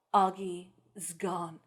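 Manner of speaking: low, slow, mildly mournful quote; retold tearful. Girl saying her friend is gone, mock tearful. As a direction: lightly imitate someone crying. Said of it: "she's crying".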